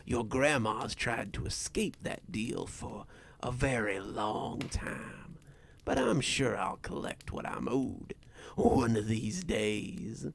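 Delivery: lightly voiced menacing dealmaker; understated threat, slipping into whispers; sinister stranger. Stranger tells of the deal.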